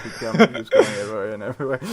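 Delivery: quick giggly retelling; laughing quote. Retold or imitated. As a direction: rush it while laughing. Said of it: "that monotone voice".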